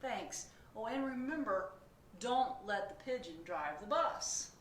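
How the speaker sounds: cheery driver talking to the reader; bus driver voice. Acted. Bus driver asks readers to watch the bus, lightly voiced.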